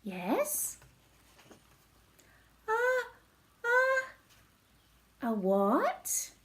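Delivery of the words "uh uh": sneeze building. Acted. Gerald about to sneeze.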